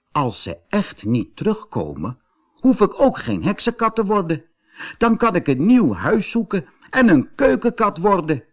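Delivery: high little cat voice, brightening up; kitten voice. A narrator's reading. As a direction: think it through as a small hopeful kitten. Kitten voice in the story.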